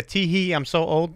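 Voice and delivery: fake-cute self-pity; mock giggly. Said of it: "was it like a".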